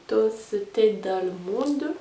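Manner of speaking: French-accented "Toasted Almond", said slowly; English accent. Real, not acted. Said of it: "Bien mon accent anglais". (accent anglais maladroit et lent sur « Toasted Almond »)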